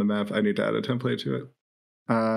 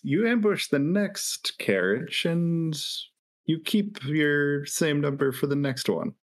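lightly voiced negotiator, measured pace; a hint of in-character haggling; bargaining adventurer; 5 semitones higher, slower than usual. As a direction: offer the ambushers a deal, unhurried.

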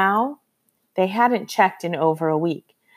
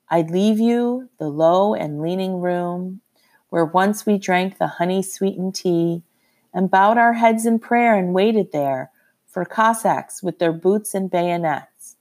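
poem recital. A narrator's reading.

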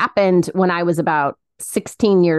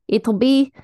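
higher put-on Russian accent; Bartok; 5 semitones higher than usual. Cousin recalling a cartoon bat's quotes, Russian accent. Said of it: "do the, the Bartok Russian accent".

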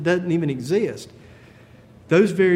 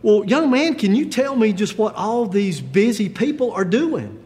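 a little perturbed; 5 semitones higher than usual. Acted. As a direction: press the boy with mock impatience. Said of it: "a little bit perturbed at this point".

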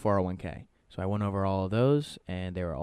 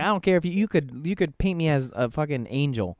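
louder, higher joking threat; a friend warned in a mock-angry raised voice; 6 semitones higher, 4 dB louder than usual. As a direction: lean in like a half-serious threat. Retold threat to reference.

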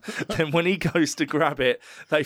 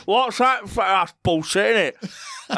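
rough shouting tarot reader; 5 semitones higher, slower than usual. Retold or imitated. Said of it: "not some guy going".

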